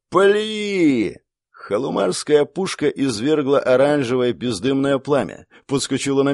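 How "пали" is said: резкий громкий приказ стрелять; выкрикнуть команду на весь берег; крик команды. Acted. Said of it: "генерал заорал". (генерал кричит «Пали!» своим солдатам)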